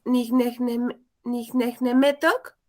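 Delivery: "nicnecnemetok" in slow, evenly beaten syllables; teacher modelling the rhythm of "nicnecnemetok", slowly; rhythmic word demo. Shown as a demonstration. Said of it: "ahí agárrale ritmo".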